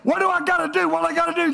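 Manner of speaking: a lightly voiced young man pressing Jesus; eager rich young ruler. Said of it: "and said".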